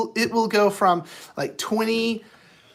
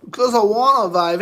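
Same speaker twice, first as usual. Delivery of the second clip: louder; 6 dB louder than usual. Shown as a demonstration. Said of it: "'Cause I wanna".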